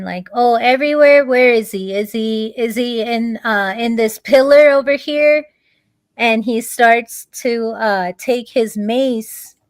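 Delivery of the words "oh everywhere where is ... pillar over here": mock incredulous questions, lifted in pitch; mocking demon king. Demon king taunting his praying son about God, mocking. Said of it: "the king starts making fun".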